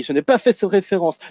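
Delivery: a repeated light Tommy denial, again on fait; lightly voiced Tommy insisting; Tommy Wiseau parody. Tommy Wiseau parody, lightly voiced insisting denial. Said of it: "je m'attribue le rôle de Tommy Wiseau avec mon accent belge".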